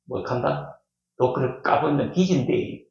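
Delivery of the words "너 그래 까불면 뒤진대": lightly put-on Gyeongsang warning; Gyeongsang dialect. Shown as a demonstration. Preacher putting God's warning into local talk, Gyeongsang dialect. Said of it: "경상도 말로".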